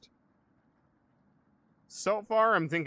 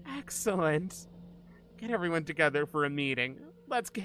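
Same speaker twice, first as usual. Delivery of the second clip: put-on crazy psychopath girl; 6 semitones higher than usual. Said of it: "You do a crazy psychopath girl voice really well".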